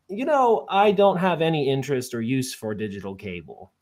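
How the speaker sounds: lightly voiced sweet old southern lady. Old lady on the phone politely turning down cable, gently. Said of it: "in this sweet southern voice".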